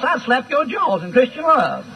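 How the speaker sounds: usual speaking voice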